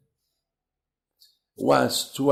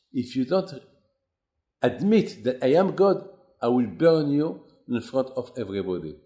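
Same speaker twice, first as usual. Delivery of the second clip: heated confrontation; 4 semitones higher than usual. Acted. Abraham and Nimrod confront.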